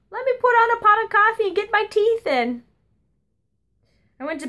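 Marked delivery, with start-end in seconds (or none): 0.1-2.6 grandma's voice. Retold or imitated. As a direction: put on a sweet granny voice. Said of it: "she'd say".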